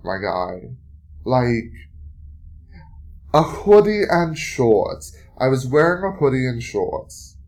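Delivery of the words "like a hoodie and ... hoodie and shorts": real indignant shouting. Real, not acted. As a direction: yell it like it's obvious. Outraged after street harassment.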